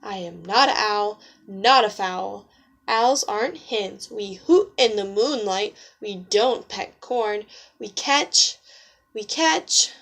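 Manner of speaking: a firm, lightly voiced owl; owl speaking up. Fed-up owl telling off the silly hens, firm. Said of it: "so he said".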